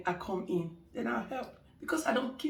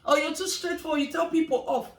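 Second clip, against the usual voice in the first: gossiping client; 5 semitones higher than usual. Retold or imitated.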